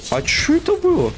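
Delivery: high squeaky mock echo; squeaky mimicry. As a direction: parrot it in a squeaky voice. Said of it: "mimics the game line".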